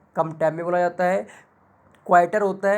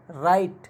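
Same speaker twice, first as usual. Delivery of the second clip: राइट with रा stretched and a light इट; stress on रा; much slower than usual. Shown as a demonstration. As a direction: draw out the रा in राइट. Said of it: "थोड़ा सा जोर देके खींचा है".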